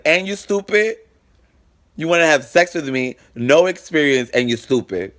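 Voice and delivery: high, scornful jab at him; mocking disbelief. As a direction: sneer at how dumb he is. Mocking the boyfriend's failure.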